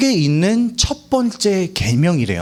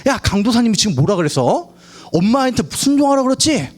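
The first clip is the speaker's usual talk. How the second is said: urgent parent; 6 semitones higher than usual. Retold or imitated. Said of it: "막 이렇게 다급하게 불러요".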